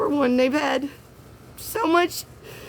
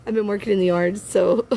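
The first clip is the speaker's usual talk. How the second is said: happy tears; 5 semitones lower, faster than usual. Real, not acted. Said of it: "if these are happy tears".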